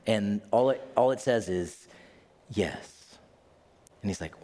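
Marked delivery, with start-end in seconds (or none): 2.5-3.2 low, quiet voice of death; lightly voiced death, hushed and low.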